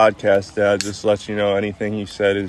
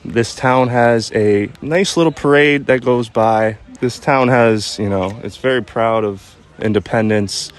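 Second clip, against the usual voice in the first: careful. Real, not acted. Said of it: "how intricate you're sounding right now".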